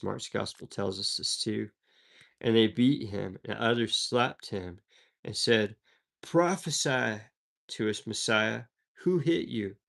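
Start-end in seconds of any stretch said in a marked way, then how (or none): 6.2-9.8 mocking taunt. Soldiers mock the beaten Jesus.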